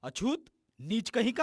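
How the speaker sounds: high-pitched, contemptuous abuse; furious insult. Acted. Villager abuses the boy before the beating, furious. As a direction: hurl the slur in rising fury.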